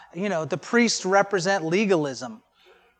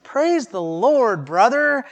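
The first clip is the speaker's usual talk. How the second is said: slow, drawn-out mock-pious praise, pitched higher and louder; sarcastic blessing; 7 semitones higher, 8 dB louder, slower than usual. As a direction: sneer a holy greeting at the driver who cut you off. Angry driver cut off in traffic.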